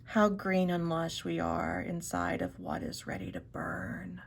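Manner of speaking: awed whisper behind a hand; muffled, hushed in awe; hand over mouth. Real, not acted. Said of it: "I had my hand over my mouth".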